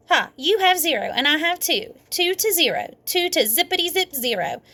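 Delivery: high, sing-song gloating; mock the losers; taunting. A narrator's reading. May taunting Sheldon and Junie, high sing-song gloat.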